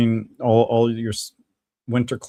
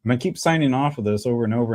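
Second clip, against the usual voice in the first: ordinary talk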